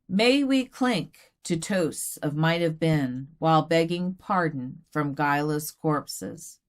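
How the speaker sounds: measured, solemn poem recital; elegy reading. Acted.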